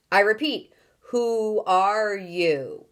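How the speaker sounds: slow, stretched angry demand; urgent angry shout. Acted. Houston repeats its demand to the strangers, slow angry shout. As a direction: press them hard, slowly and angrily. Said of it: "shouted the urgent, angry voice".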